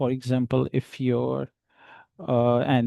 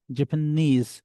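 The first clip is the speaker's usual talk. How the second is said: Japanese with the last syllable nees pressed hard; stress on nees; 2 semitones higher than usual. Shown as a demonstration. Teacher showing students the stress in Japanese, stress on nees. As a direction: lean on nees at the end of Japanese. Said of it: "stress on the word knees".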